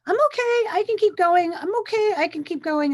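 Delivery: mock upbeat self-reassurance on repeat; hammed-up brave face. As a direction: chant it like you're pushing through. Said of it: "That's me".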